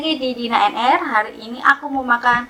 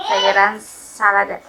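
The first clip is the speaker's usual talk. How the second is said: laughing. Real, not acted.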